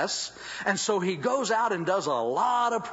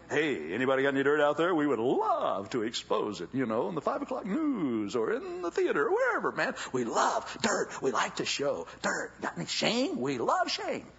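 mocking media.

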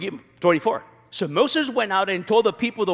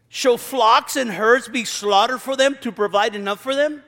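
sarcastic; 3 semitones higher than usual. Retold or imitated. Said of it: "I hear sarcasm in his voice".

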